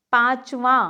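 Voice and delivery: पांचवा said as paach-waa, the n left out; wrong pronunciation. Shown as a demonstration. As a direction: drop the n sound from पांचवा. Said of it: "पांचवा नहीं होता".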